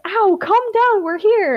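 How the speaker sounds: high, exasperated cry to calm down; pained exclamation. A narrator's reading. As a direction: exclaim as if just kicked. Ember kicked, tries to calm Ash.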